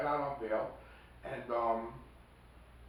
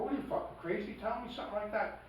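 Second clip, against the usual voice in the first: higher, mock-outraged retelling; incredulous rebuke, pitched higher; retold incredulous rebuke; 8 semitones higher than usual. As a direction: replay the rebuke with more disbelief. Rebuking friend, repeated.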